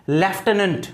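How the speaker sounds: लेफ्टिनेंट as LEF-tuh-nunt; लेफ्टिनेंट modelled as lef-tuh-nunt; different pronunciation. Shown as a demonstration. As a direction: say लेफ्टिनेंट with "lef" and reduced endings. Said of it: "इसका pronunciation अलग है".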